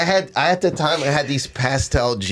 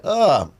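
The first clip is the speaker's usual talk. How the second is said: short pained grunt from a kick; mock pained grunt; retold grunt; 4 semitones higher than usual. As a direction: grunt like you just got kicked. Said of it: "the guy went".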